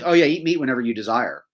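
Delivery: facetious, taunting go-ahead; sarcastic. Retold or imitated. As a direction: sarcastically grant permission. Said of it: "he's being sarcastic there".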